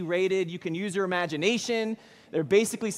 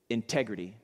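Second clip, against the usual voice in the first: low, soft one-word answer; quiet gravity; 8 semitones lower, 5 dB quieter than usual. Retold or imitated. John answers the gang with one word, low and quiet. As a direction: drop the voice and let the word land.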